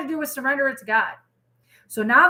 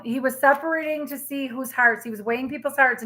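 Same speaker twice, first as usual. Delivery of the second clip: usual speaking voice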